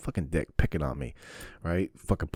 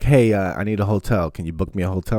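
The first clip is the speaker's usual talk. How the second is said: mock brother request; 3 semitones higher, 8 dB louder than usual. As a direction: imitate the brother's breezy favor. Brother asking for a hotel.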